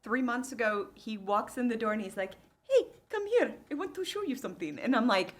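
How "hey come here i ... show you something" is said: high, eager call to come see; excited dad. Retold or imitated. Retelling her dad calling her over, eager and high. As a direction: play the dad bursting to show off.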